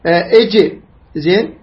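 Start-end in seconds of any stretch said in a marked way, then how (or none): 0.3-0.7 اج with a bounced final jim; qalqala echo. Shown as a demonstration. Teacher lists qalqala letters, bouncing echo on اج. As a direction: release the ج of اج with a small echo. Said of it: "هذا الاضطراب هو القلقلة".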